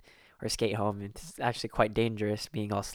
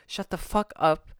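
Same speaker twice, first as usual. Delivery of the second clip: mock snappy; 3 semitones higher, 3 dB louder than usual. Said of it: "And I simply say to you".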